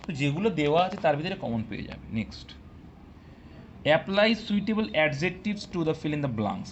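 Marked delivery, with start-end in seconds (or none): 4.0-6.7 very slow, word by word; slow dictation read. Shown as a demonstration. Teacher dictating the question to students, slow and deliberate. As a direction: read the question out slowly for the class.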